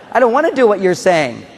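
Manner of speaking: put-on defiant little boy. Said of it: "He says".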